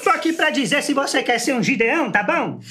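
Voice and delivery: Silas Malafaia. Retold or imitated. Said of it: "Silas Malafaia com gás L".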